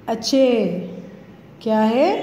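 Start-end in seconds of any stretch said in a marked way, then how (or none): 0.1-0.7 अच्छे with a held, falling final e; long e ending. Shown as a demonstration. Teacher modelling the third word, अच्छे ending in long e. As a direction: sound out अच्छे, stretching the badi ye. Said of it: "ये भी इसी तरह से".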